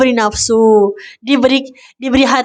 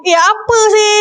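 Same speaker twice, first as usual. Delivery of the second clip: mock irritated retort; 7 semitones higher than usual. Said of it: "dia macam".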